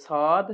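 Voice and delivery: "সদ" with a thick, whistling s; "সদ" as an emphatic Arabic Sad; heavy whistled S. Shown as a demonstration. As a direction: draw out a heavy "সদ" from the front teeth. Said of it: "শীর্ষসহ মোটা".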